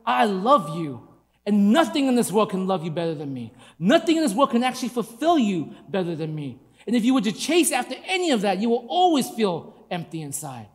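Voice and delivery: God's loving voice. Retold or imitated. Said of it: "He says".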